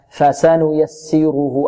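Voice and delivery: very slow, measured recitation; full vowel measure. Shown as a demonstration. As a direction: recite فسنيسره slowly, each vowel held to its full length. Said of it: "نعطيها قدرها من الفتح". (تلاوة بطيئة بإعطاء كل حركة قدرها)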